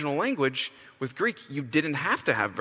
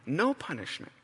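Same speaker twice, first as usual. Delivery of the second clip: gentle offer. Shown as a demonstration. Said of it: "God offers us this banner".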